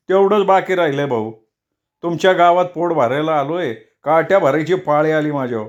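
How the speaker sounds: put-on upset old villager.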